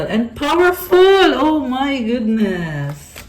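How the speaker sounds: loud, high drawn-out burst, then easing; real excitement, stretched wide; amazed exclamation. Real, not acted. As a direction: belt it out in amazed delight. Amazed by the powerful card.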